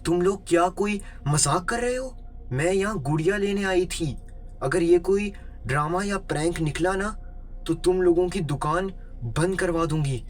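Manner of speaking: high-pitched indignant threats; moderately heated scolding, short of a real scream; acted angry yell. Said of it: "वो गुस्से से चीखते हुए बोली".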